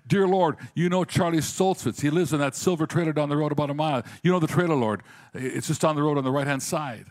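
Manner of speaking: loud, high, pleading prayer shout; retold shouted prayer. Man praying loudly over the pastor, shouting. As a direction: call out the prayer to the Lord at full voice. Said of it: "And he shouted".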